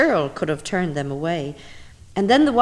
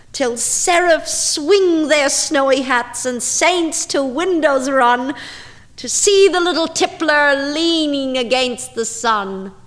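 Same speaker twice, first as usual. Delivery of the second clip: louder and louder, climbing high at the end; rapturous exclaiming; 4 semitones higher, 6 dB louder than usual. Acted. Reciting the drunken-bee poem to listeners, swelling to a loud, high, rapturous finish. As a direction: let the tipsy joy swell until it bursts.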